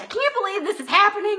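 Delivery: retold panic. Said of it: "And I'm like".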